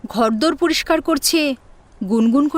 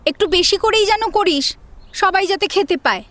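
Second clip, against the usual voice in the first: higher, bossy order to the maid; bossy command; 5 semitones higher than usual. Acted. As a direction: give orders like a spoiled elder sister. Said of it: "Jaya এসে রীতিমতো আদেশ করে".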